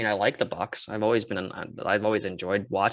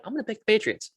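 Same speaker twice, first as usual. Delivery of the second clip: put-on Boston accent; 11 semitones higher, faster than usual. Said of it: "you're doing a Boston accent to say Chargers".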